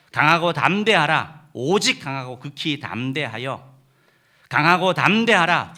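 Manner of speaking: loud, slow, ringing proclamation; forceful command. Acted. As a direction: proclaim it like God commanding Joshua. Reading God's command to Joshua.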